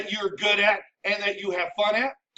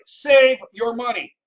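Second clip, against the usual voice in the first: "save your money" said loud and slow, every word hammered; emphatic loud; 7 dB louder, slower than usual. Acted. Repeating the rule for emphasis.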